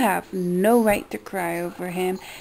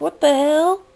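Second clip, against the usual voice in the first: retold scream; 6 semitones higher, 4 dB louder than usual. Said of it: "I start screaming, like".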